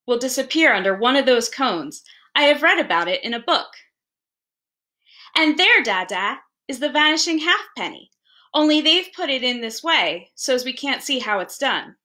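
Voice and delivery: lightly voiced small boy, eager and earnest; a touch of a keen child pointing at toys; hint of a boy begging his father; eager little boy. Child Gip explains the trick.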